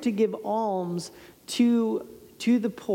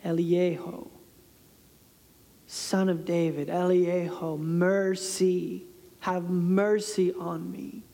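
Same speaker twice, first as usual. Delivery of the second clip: tender plea; 4 semitones lower, slower than usual. Retold or imitated. Cry for mercy, softened.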